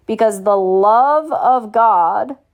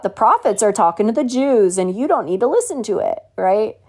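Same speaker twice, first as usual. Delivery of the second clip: mocking parody of church teaching, pitch swooping; mock what they've been taught, tagging on a scornful "right?". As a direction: mimic their teaching with open mockery. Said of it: "I sound very mocking in my tone".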